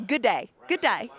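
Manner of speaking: put-on amateur Australian accent on a short greeting; rough, lightly put-on Aussie accent; attempted Australian accent. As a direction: try an Australian accent, Southern US speaker underneath. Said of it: "That's my Australian accent. I'm sorry".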